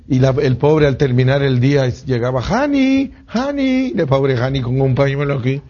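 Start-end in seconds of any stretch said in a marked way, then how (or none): 2.4-3.9 high sing-song call to the wife. Acted. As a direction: call her name up high and drawn out. Noé llama a su esposa. (llamando a la esposa con voz aguda)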